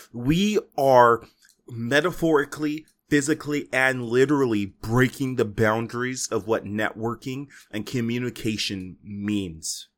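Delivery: slow, dramatic show intro with weighty pauses; mock-grand announcer. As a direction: announce it like an epic voyage.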